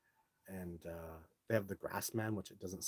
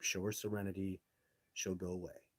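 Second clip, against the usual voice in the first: calm inner voice; 4 dB quieter than usual. Pretend. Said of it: "a Sasquatch just saying".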